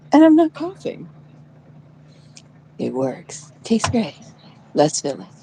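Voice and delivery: lightly hammed-up ad slogans; mock commercial. Reciting ad slogans for NyQuil, lightly hammed up. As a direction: sell it like a cheap ad.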